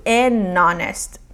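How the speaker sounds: "An honest" said en-onest, H silent, slow; "An honest" with the H dropped, slowly. Shown as a demonstration. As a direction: link the n into "honest" with no H. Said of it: "o H fica mudo".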